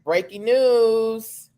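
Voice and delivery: news announcer. Pretend. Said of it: "here it goes".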